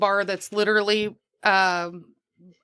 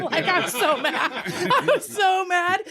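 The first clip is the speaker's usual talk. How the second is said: laughing through the words, much higher and slow; real giggles while saying it, slow; 10 semitones higher, slower than usual. Real, not acted. Laughing while retelling anger.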